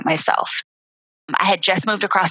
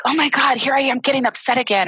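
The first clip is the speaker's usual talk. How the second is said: higher, hammed-up fretting; mock self-panic; 7 semitones higher than usual. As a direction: parody your own anxious inner voice. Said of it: "instead of feeling like".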